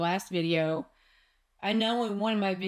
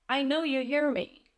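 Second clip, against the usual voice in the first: pleading, pitched higher, with a touch of tears; half-relive the desperate plea to God; retold pleading; 6 semitones higher than usual. Retelling her tearful prayer to God, pleading higher. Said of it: "And I'm bawling".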